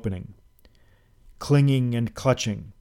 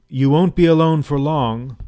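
louder, higher mocking host; host's sinister jest; 4 semitones higher, 6 dB louder than usual. A narrator's reading. Host to locked-in guest, mocking. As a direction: savour the threat.

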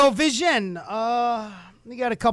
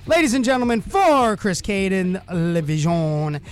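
slow, grand ring-announcer farewell; announcer sign-off. Acted. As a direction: address the crowd like a ring announcer. Show sign-off.

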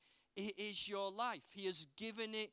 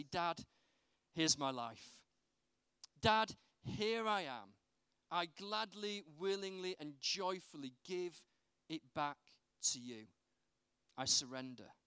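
tender prayer. Retold or imitated. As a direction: offer your life gently. Surrender prayer to God.

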